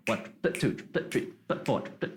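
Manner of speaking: quick soft count, "triplet" landing on its last syllable; shuffle feel. Shown as a demonstration. Teacher shows Western shuffle, stress on end of "triplet". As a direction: swing "One triplet, two triplet" onto each "let". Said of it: "The Western shuffle feel".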